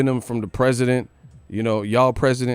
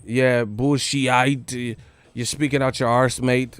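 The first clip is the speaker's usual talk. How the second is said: mock British; slower than usual. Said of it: "we don't talk like".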